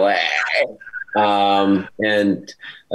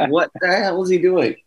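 higher-pitched retold disbelief; mock bafflement; 8 semitones higher than usual. Actor retelling his reaction to a castmate's accent, baffled. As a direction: play up being utterly baffled, pitched up.

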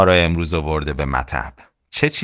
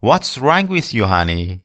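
kind doctor; much slower than usual. Acted.

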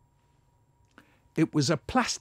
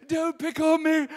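laughing voice; 13 semitones higher, 4 dB quieter than usual. Acted. High laughing voice.

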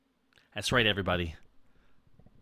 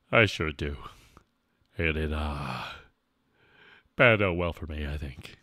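deep character reply; 9 semitones lower than usual. Pretend. Streamer answering as a second character, deep voice. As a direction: sink low and reminisce.

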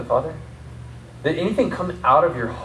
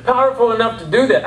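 higher-pitched protest to the pastor; doubting congregant; 6 semitones higher than usual. Acted. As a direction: plead inadequacy in a rising voice. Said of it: "You say".

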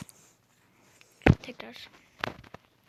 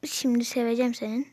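angry outburst; 5 dB louder than usual. Real, not acted. Raging at the game.

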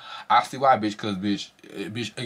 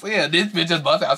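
excited; 6 semitones higher than usual. Real, not acted. Gagging at the show.

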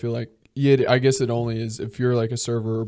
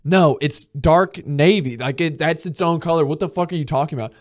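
indignant outburst, pitch jumping up; exasperated arguing; 3 semitones higher, 4 dB louder than usual. Acted. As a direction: argue back as if outraged. Acted quarrel over a color.

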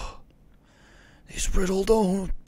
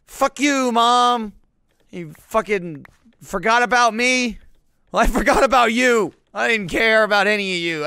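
mock Kevin McAllister rant; 3 semitones higher, 5 dB louder than usual. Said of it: "I'm like Kevin McAllister".

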